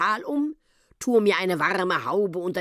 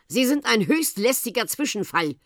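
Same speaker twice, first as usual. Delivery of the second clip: higher, irritated outcry; exclaiming; 7 semitones higher, 4 dB louder than usual. A narrator's reading. Gendarme calling out at the intruding whale, exclaiming. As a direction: call it out in annoyance. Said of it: "rief nun Herr Obacht".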